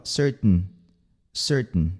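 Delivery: CERTAIN with a stopped T released as nasal N; T through nose. Shown as a demonstration. Teacher demonstrates to learners, nasal-released T. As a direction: say "Certain" as "cert-n", no vowel before N. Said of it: "ele vai no nariz".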